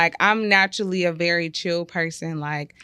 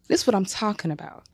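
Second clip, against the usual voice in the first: exasperated wife. Acted. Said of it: "Man, she good".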